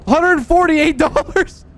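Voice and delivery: high, loud, drawn-out cheer; excited cheer. Real, not acted. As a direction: celebrate the big payout slowly. Thrilled at loot value.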